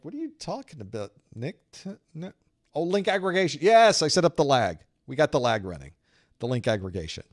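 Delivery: mock network guy in a Southern accent; Southern-accented engineer correcting a naive question. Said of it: "with my Southern accent".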